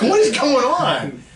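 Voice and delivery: high, slow, laughing What is going on; mock bewildered laugh; laughing disbelief. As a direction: squeal it through laughter. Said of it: "I was like".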